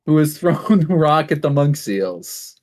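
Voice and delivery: lightly hammed-up field reporter; mock on-the-scene TV report; live news reporter. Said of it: "be our, like, live reporter on the ground".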